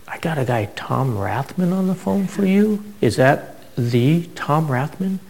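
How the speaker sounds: high, eager disbelief about a famous name; star-struck clerk, slowly and thrilled; excited. Retold or imitated. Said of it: "he was all excited".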